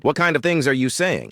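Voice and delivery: exasperated. A narrator's reading. Max objecting to what is being said, mildly exasperated. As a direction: protest with a touch of exasperation.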